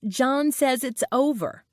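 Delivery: a touch of distraught wailing; mild wail. A narrator's reading. Best friend collapses into her arms, mild wail. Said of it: "let out this spooky wail".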